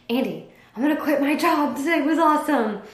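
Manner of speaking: excited announcement. Retold or imitated. Retelling the day she meant it.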